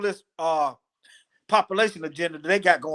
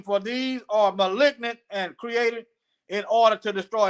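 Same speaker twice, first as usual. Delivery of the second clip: raised, deliberate reading voice; scripture reading; 3 semitones higher than usual. Acted. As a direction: read it out phrase by phrase. Reads scripture aloud.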